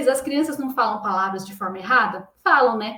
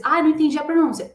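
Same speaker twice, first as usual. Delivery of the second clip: mock frustrated student; 4 semitones higher, 4 dB louder, faster than usual. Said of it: "imagined frustrated student".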